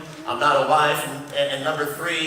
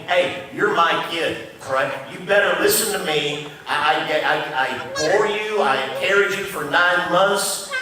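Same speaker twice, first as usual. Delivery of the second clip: a mother laying down the law to her son, louder; emphatic mother; 2 semitones higher, 4 dB louder than usual. Retold or imitated. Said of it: "her emphatic way of saying".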